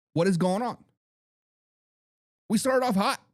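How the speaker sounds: normal talking voice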